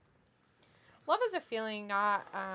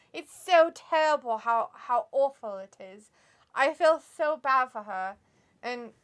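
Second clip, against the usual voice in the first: slow, overdone sympathy; mock pity; 2 semitones higher, 5 dB louder than usual. Co-host mocking Lacey Evans's sad story, mock pity. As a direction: lay the fake sorrow on thick, slowly.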